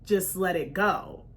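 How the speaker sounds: soft, low let-it-go murmur; quiet calming look. Retold or imitated. Husband quietly urging her to drop it, soft and low. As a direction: ease it out softly like a calming nudge. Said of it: "gave me the".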